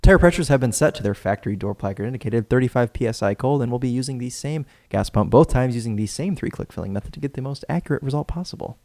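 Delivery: lightly pilot-like test briefing. Acted. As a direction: read it like a calm cockpit briefing. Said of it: "Sound like a pilot".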